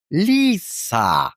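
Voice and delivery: «ліса» said slowly and clearly, the Greek way; Greek-style «ліса», drawn out; Greek pronunciation. Shown as a demonstration. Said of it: "як повинна звучати по-грецьки".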